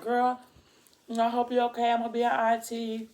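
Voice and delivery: a hint of a perky girlfriend; excited friend. Friend visiting her in hospital, lightly voiced and high.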